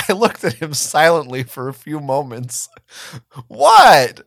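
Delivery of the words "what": loud, high, defensive outburst. Acted. Marco defending his crush on the cousins, loudly. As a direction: bristle and push back hard. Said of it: "he said defensively".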